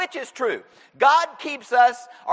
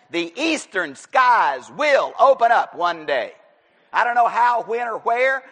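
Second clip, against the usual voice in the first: proclaiming shout; 5 dB louder than usual. Real, not acted. Preacher proclaiming second coming.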